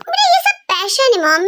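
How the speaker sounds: ordinary delivery, nothing marked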